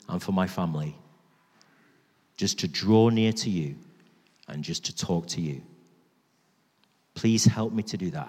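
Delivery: low, measured prayer with long pauses; heartfelt prayer. Real, not acted. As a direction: personal plea to Jesus in prayer. Leads the congregation in prayer.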